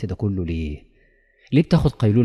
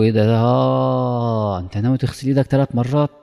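mock surprise; 3 semitones higher, 4 dB louder than usual. Devil mocking the worshipper.

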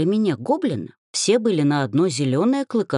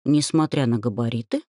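ordinary delivery, nothing marked

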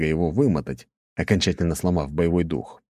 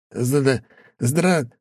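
stammering in fear; 8 semitones higher than usual. A narrator's reading. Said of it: "всё пытался сказать бедолага".

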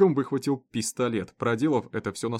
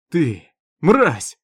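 a loud, spat insult; furious outburst; 4 semitones higher, 11 dB louder than usual. Acted. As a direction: hurl it at him with hatred. Olson furious at the prisoner.

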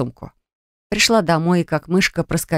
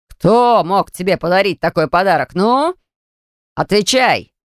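demanding father. Acted. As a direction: bark the question at her. Angry father demands answer.

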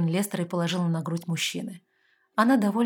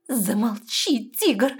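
growled; 4 semitones higher, 4 dB louder, much slower than usual. A narrator's reading. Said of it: "прорычала девушка".

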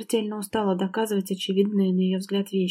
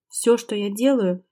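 indignant reply. Acted. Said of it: "с негодованием ответил Макс".

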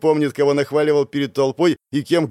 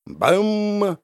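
sharp high bam, spell impact; 7 semitones higher than usual. Acted. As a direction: punch out the impact like a sound effect. Spell hits. (резкое звонкое «Бам!»)

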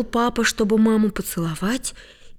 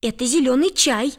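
excited shout; 5 semitones higher than usual. Acted. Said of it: "закричал Лёша".

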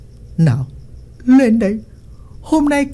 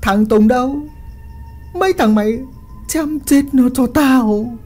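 furious villain command; 9 semitones higher than usual. A narrator's reading. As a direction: bark the order to kill. Villain orders a killing.

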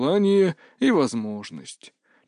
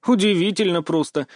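put-on higher girlish voice, teasing and sarcastic; 7 semitones higher than usual. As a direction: needle him with a higher, mocking lilt. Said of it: "язвительно произнесла Мия". (язвительно, девичьим голосом повыше)

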